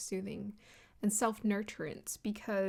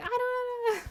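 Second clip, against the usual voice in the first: very high, loud, flustered panicking; 5 dB louder than usual. Describing someone freaking out before being comforted, acting out panic. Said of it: "you're panicking".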